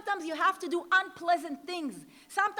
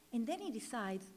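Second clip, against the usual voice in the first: normal talking voice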